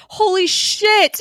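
shocked fan yelling at the screen; excited shout. Real, not acted. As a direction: blurt it out in disbelief. Shocked by Nick Fury's arrival.

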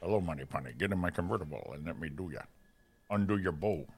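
low, softened secret-agent impression; lightly voiced suave spy; James Bond. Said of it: "James Bond".

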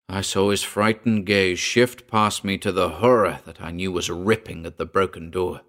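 usual speaking voice

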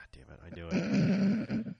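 pained whisper. Retold or imitated. Holster maker mutters in defeat at the customer's choice, whispered slowly. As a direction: groan it out under your breath, defeated. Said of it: "You could just hear the pain".

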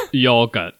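put-on yogurt in a British accent, laughing through it. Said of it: "But they say".

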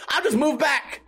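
high-pitched indignant huff; huffy, puffy retort. Retold or imitated. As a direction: imitate someone flouncing off in a huff. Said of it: "she got all huffy and puffy".

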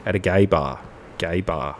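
low, dropping spoken refrain; deadpan refrain. Acted. Host ending the verse of spoken lyrics, deadpan.

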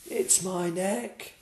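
high, slow giraffe voice; a long-necked animal's lament. Acted. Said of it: "said the giraffe".

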